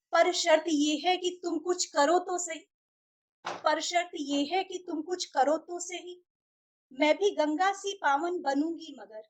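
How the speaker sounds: measured verse with pauses between lines; rhythmic, pointed recital of a love challenge; poem recitation. Acted. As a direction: recite each line deliberately, like a mushaira. Recites own poem, lines repeated.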